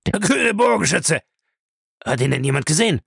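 high-pitched, agitated outburst; shocked exclamation. A narrator's reading. Bellamy reacts to news of the killing, shocked. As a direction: cry it out, then press for a witness. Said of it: "rief er".

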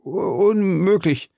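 slow, high, stammering disbelief; frightened servant, haltingly; startled. A narrator's reading. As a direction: stumble on the first sound in fright. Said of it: "sprach Grimaud erschrocken".

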